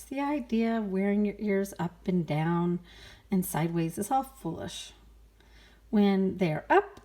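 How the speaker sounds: lightly voiced honest pig; a hint of the mother pig. Mother pig advising donkey, lightly voiced. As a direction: give practical advice as Rosa. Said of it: "she opened her eyes and said".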